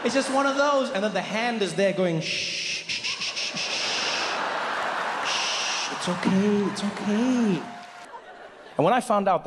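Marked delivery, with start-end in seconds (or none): 0.0-0.9 much higher, gushing fake delight; fake-surprised woman. Woman pretending to know the stranger, in a gushing high voice. 2.2-7.6 soothing shush. Retold or imitated. Hand soothing the ego.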